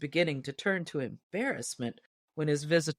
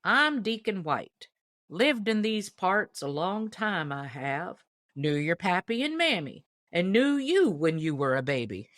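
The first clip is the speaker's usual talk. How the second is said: lightly voiced old deacon; 3 semitones higher than usual. Deacon introducing himself to Paul, lightly voiced old man. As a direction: reminisce like a country elder.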